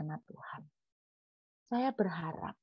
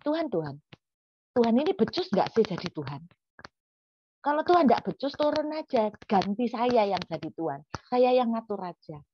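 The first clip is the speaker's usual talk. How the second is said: mock indignant complaint; 3 semitones higher, 4 dB louder than usual. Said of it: "sebetulnya kita tuh ngomong gini".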